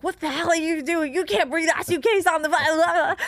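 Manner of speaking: scolding airline lady. Retold or imitated. Traveler imitating the lady at the clear line, scolding.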